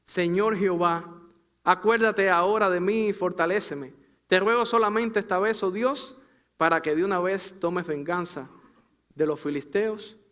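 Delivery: loud, imploring retold prayer; crying out to God. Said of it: "entonces clamó Sansón a Jehová".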